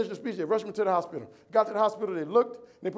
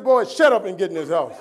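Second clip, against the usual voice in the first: louder, stern order to get inside; stern scolding mom; 8 dB louder than usual. Retold or imitated. Mother ordering her injured son into the house, louder and stern. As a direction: snap at the whining boy.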